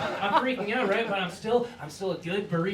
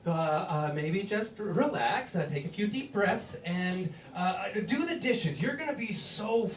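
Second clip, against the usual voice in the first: calm reassurance; 4 dB quieter than usual. Retold or imitated. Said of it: "she's like".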